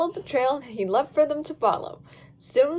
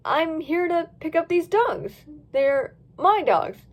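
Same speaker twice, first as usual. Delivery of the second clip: slow bluffing voice; 4 semitones higher, slower than usual. Acted. Dylan bluffing in disguise, slow.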